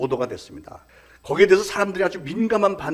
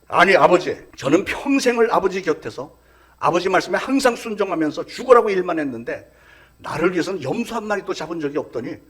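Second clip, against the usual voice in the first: louder, indignant elder son talking back; a resentful son confronting his father, louder; angry retort; 2 semitones higher, 4 dB louder than usual. Retold or imitated. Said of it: "큰아들이 화가 나서 막 대드는 거예요".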